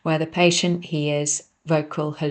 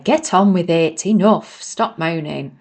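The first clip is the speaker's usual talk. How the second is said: firm no-nonsense voice; 6 dB louder than usual. Acted. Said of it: "Her voice tone is firm".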